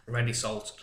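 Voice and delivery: talking through crisps; words round a mouthful of crisps; mouth full. Real, not acted. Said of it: "you can talk with your mouth full".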